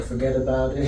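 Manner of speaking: light mock Italian accent; a hint of a New York Italian tough guy; offhand imitating an Italian accent. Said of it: "that was Italian".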